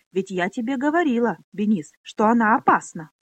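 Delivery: loud, panicky squeak; frightened squeak. Acted. Pona hides behind Benis, squeaking in fright. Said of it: "срывающимся от испуга голосом пискнула Пона".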